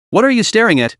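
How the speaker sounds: a scornful magpie taunting the snake; sneering. Acted. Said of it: "he sneered".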